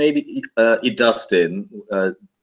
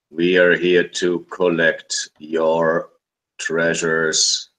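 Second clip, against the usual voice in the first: tinny voice; 5 semitones lower, slower than usual. Acted. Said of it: "the very tinny voice".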